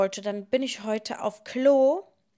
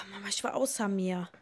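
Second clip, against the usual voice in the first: whisper; 3 semitones lower, 7 dB quieter than usual. Real, not acted. Daughter tells of scare.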